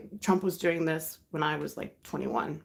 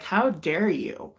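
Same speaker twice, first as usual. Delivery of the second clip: mildly heated retold scolding; firm, emphatic mock reprimand; telling off; 2 semitones higher, 4 dB louder than usual. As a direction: imitate a friend indignantly telling someone off. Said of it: "she told him off".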